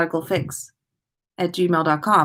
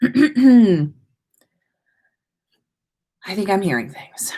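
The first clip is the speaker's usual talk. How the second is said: unvoiced eerie whisper. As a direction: breathe it out, no voice at all. Whispered story opening.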